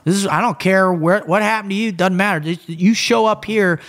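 retold exasperated dressing-down; impatient dismissal. Acts boss dismissing his excuses.

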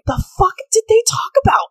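high whispered puzzled voice; breathy baffled whisper; imitating confused people. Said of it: "people are gonna be like".

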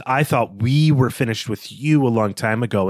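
"we" lifted and leaned on, the rest of the quote read plainly; stress on we. Retold or imitated. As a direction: quote the line and push the word "we". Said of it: "Weir's use of the word "we".

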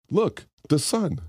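mock-helpful Oklahoman. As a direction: spell it out slowly like to a lost tourist. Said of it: "a helpful Oklahoman comes up and says".

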